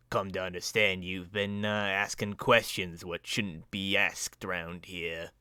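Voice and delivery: gravelly, slowing towards the end; a rough street thug's warning; deep gravelly villain. Acted. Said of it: "a deep kind of, uh, gravelly, uh, voice".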